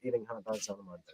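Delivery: lightly attempted Cockney accent; tentative British-accent attempt. Shown as a demonstration. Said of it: "I'll see if I can replicate it".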